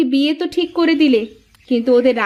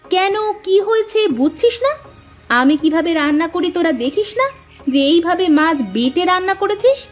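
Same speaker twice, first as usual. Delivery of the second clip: indignant rhetorical questions; acted exasperated telling-off; scolding mother; 3 semitones higher than usual. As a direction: tell the girls off for botching the dish. Mother scolds daughters over cooking.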